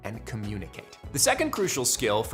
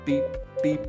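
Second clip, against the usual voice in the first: light spoken beep sounds; imitated beeps; 4 semitones higher than usual. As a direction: mimic the recording beeps. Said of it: "you go beep".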